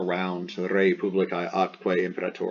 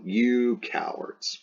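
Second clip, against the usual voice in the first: slow, higher-pitched jeer at the troops; mock taunt; 4 semitones higher, much slower than usual. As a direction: draw out the insult theatrically. Acted taunt at hesitant soldiers.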